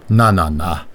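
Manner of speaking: gentle tut-tutting comfort; consoling. A narrator's reading. Vater Rhein comforts weeping Annabel, consoling. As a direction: soothe with three measured syllables. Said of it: "tröstete Vater Rhein Annabel".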